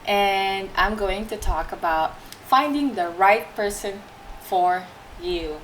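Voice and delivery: talking around a hard candy in mouth; sucking a hard candy. Real, not acted. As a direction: speak with a candy tucked in your cheek. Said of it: "I have candy in my mouth".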